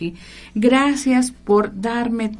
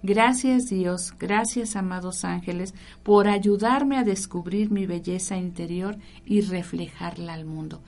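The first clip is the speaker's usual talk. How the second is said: slow grateful prayer. Shown as a demonstration. Speaker models the affirmation for listeners, slow and tender. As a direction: pray it slowly and gently. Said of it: "Entonces di".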